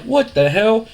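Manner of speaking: high, squeaky disbelief; shocked disbelief. Retold or imitated. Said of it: "Shane's like".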